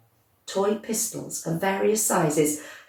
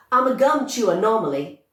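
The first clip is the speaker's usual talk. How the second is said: shouted; 5 semitones higher than usual. Acted. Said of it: "she shouted".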